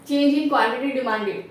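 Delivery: slow, word-by-word, spelling out the term; slow dictation. Shown as a demonstration. Teacher dictating the term slowly to students.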